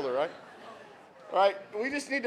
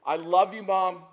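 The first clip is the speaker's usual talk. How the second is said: retold shout; 3 semitones higher, 5 dB louder, slower than usual. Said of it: "He just shouts to her".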